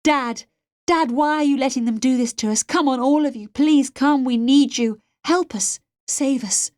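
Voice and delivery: high, urgent calls for rescue; desperate pleading. A narrator's reading. Captive girl begs absent friends and Dad to come, desperate pleading.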